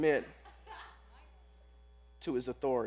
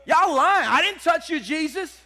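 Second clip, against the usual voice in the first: lightly voiced indignant woman, louder; mock defiant denial; 8 semitones higher, 8 dB louder than usual. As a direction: brush off the blame in a hammed-up huff. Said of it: "she could easily say".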